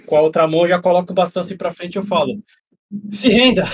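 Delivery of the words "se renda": higher, louder battle cry; shout. Acted. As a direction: bark the demand to surrender. Character threatens with a staff.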